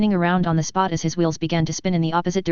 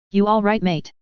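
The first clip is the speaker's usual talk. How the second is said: put-on Australian accent; 3 semitones higher than usual. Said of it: "that's a very weird accent you have there".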